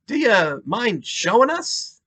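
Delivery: slow gentle New York detective. Acted. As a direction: ask gently, high and slow. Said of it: "Berkowitz asked gently".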